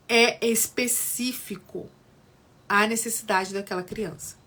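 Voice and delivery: speaking through hiccups; words broken by a hiccup. Real, not acted. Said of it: "Desculpa, tô com soluço".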